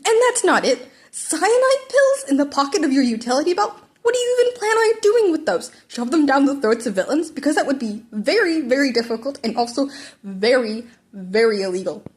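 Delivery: high, loud disbelieving rant; exasperated scolding. Acted. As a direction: pile on the disbelief, voice climbing. Teacher scolding absurd gear.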